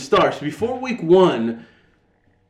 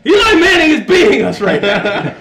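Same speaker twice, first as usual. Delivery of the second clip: much higher, louder, laughing rant; mock furious yell; 10 semitones higher, 5 dB louder than usual. Fan shoos his wife during the game, mock furious yelling. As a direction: bark them away like a wounded fan. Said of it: "I'm like".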